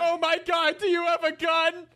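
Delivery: high-pitched mock alarm; appalled robbery victim. Victim questioning his robber, appalled high yell. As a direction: cry out in exaggerated high-voiced shock. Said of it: "He's appalled that you're bringing up".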